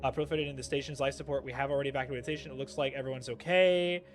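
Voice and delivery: quick, low, soft event reading; brisk understated narration; game text read-aloud. Acted.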